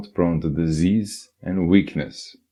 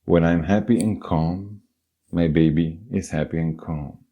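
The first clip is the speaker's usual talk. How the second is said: calm affirmation. Shown as a demonstration. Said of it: "Next refrain".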